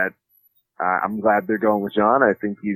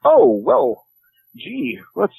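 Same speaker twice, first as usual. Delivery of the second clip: mock sweet friend; 11 semitones higher, much slower than usual. Friend mimicked as overly sweet.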